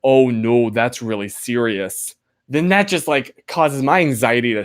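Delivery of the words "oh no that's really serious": retold grave concern. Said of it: "give a, one of my concerns to someone".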